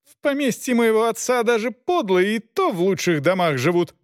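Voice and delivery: high-pitched indignant lady's voice; furious high lady. A narrator's reading. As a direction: spit out her outrage. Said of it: "Она пылала яростью".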